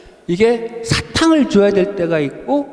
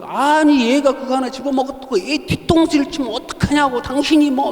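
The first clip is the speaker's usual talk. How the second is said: mother yelling; 4 semitones higher than usual. Retold or imitated. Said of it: "막 소리를 내고 막 뭐라고 그러는 거예요".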